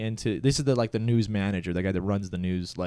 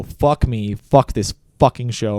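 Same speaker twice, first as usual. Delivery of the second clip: louder, forceful whisper-yell curse; 7 dB louder, slower than usual. Retold or imitated. Angry cameraman cursing on live air, whisper-yelling. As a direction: hiss it so hard it carries. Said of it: "I was actually whisper yelling".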